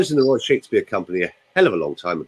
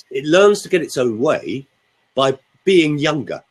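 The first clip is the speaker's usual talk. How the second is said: ordinary talk, nothing marked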